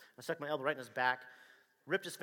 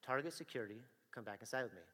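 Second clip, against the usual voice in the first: officer repeating his order, lower and sterner; lower, firmer repeat; 2 semitones lower, 5 dB quieter than usual. Retold or imitated. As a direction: press it home, no longer asking. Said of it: "And I go".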